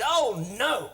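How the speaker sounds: mild dismayed cry from a dog; playful, drawn-out mock dismay; mock shout. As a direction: shout it lightly, as the joke's dog. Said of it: "clapped his paw to his head and shouted".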